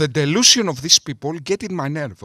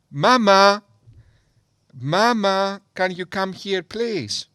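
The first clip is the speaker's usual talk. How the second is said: calling for mama, fading softer, a touch higher; mock scared child; 4 semitones higher, 3 dB quieter than usual. Mocking fear by calling his mother for help. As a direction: play a frightened kid calling mama, half joking. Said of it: "I will call my mother".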